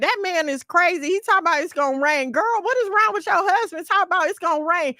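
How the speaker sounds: lightly acted scoffing gossip; gossiping townspeople. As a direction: ridicule him like a nosy neighbor. Townspeople mock the husband.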